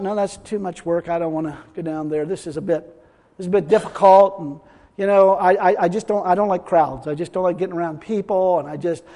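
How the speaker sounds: a lightly voiced reluctant believer; mock reluctant excuses. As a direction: mumble the excuses like someone too lazy to bother. Preacher voices the reluctant woman.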